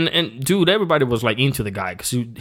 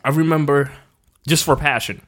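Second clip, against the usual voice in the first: chewing gum while talking; mouth full; 2 semitones higher than usual. Real, not acted. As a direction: talk around a wad of gum. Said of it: "I have a gum in my mouth".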